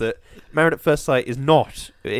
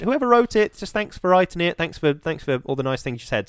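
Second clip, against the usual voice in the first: gushing thanks; 5 semitones higher than usual. Retold or imitated. Wife's gushing thanks, retold.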